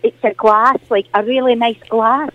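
a lightly put-on Scottish auntie, chatty and fond; Morag caller voice. Glasgow caller greets the radio host, in a lightly put-on Scottish auntie voice. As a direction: play the sweet old Glasgow lady caller.

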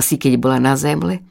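ordinary delivery

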